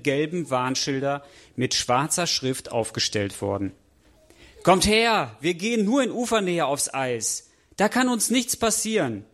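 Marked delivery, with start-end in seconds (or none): 4.6-9.3 rising, higher, cocky call to the friends; high-spirited call. Acted. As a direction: egg them on, carefree and overconfident. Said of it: "ruft Maiko übermütig". (übermütig und ausgelassen rufend)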